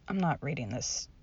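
irritated huff. Real, not acted. Refuses to read pun.

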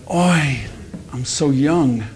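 a hint of a comic Jewish wail; hammed-up Jewish lament.

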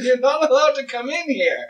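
fairy-tale imp voice. Acted. Continues high villain voice.

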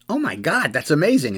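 stunned by the hit; amazed. Retold or imitated. Sees the huge home run.

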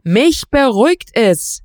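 indignant shouted retort. Acted. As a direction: shout back in defiance. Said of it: "schrie Olaf".

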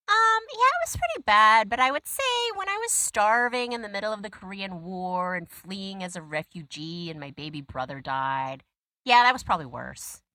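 casual, understated dad; low key. Retold or imitated. Dad on the phone, low-key and casual. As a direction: shrug it off, matter-of-fact. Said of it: "very low key, very cash".

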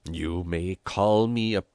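indignant protest, rising sharply at the end; affronted shrill little priest; shrill cry. A narrator's reading. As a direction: build to a loud, piqued 'peanut'. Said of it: "he cried in a shrill voice".

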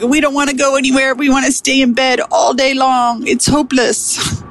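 put-on high, fast, sulky inner-child voice; whiny inner voice. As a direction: voice the sulky part of yourself. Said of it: "parts of me that were like".

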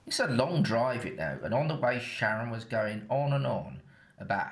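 The speaker drops the BBC voice for broad Essex; Essex accent. Real, not acted. The speaker telling listeners his story in his natural Essex accent. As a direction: talk like you do at home in Essex, dropping the posh English. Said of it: "from now on I'll speak more like I normally talk with her".

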